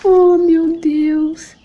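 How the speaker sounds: high, very slow "oh my God"; delighted gasp. Real, not acted. Mom-to-be overcome at a tiny pink cap, slow and high. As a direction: drag it out, overcome by cuteness.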